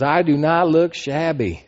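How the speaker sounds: slow, high redneck drawl; good ol' boy. Retold or imitated. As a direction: play the country boy, laughing. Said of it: "and in his redneck voice".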